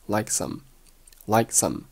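"like some" with the k held back; unreleased k. Shown as a demonstration. Teacher shows lost plosion, "like some" with unreleased k. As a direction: hold the k in "like", go straight into "some". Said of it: "like结尾的k失去爆破".

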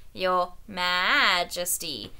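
slow, bleating mockery of the shepherd; mocking sheep bleat. Spittleworth bleating a mockery of the shepherd. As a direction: sneer it like a sheep. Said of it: "imitated him softly, making the old shepherd sound like a sheep".

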